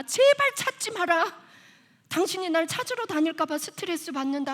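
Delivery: high, emphatic mock protest; acted-out demand to be left alone; retold loud rebuff. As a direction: push it out high, then ease slightly. Acts out the child's rebuff.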